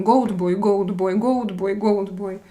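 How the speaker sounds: put-on "Goat Boy" with a slurred Slavic-accented "Goat", almost "Gold". Shown as a demonstration. Streamer showing chat how his accent mangles the name, in a light Slavic accent. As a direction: say "Goat Boy" quickly the way a Russian tongue makes it. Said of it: "I call him Goat Boy all the time".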